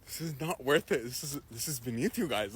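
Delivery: low, hushed peacemaking; mock-earnest plea. Storyteller talks down two fighters, low and soft. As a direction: drop your voice and reason with them.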